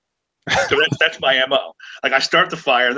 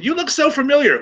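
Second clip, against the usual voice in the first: imitated old woman, much higher pitch; 12 semitones higher than usual. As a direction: do a high old-lady voice, recognizing someone. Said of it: "I get old women coming".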